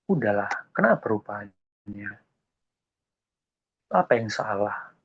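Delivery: gentle teasing coax; coaxing God. Acted. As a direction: coax a sulking friend softly. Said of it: "membujuk Yunus. Ya, dia lagi bercanda". (membujuk dengan lembut sambil bercanda)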